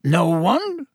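drawn-out hopeful question, rising high; pleading. A narrator's reading. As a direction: plead gently for a volunteer. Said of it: "with a pleading look".

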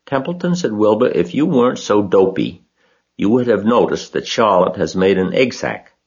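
high, eager piglet voice; a proud little pig showing off; young pig voice. Acted. Wilbur voiced in a story.

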